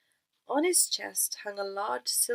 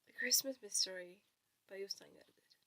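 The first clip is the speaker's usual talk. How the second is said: whispered reading with a cold; whispering; 11 dB quieter than usual. Real, not acted. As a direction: read it in a soft whisper. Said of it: "to save my voice".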